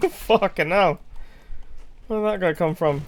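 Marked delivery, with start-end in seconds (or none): 0.1-1.0 slow startled curse through a laugh; laughing exclamation. Real, not acted. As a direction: blurt it out laughing. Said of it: "The way you said "fucking hell".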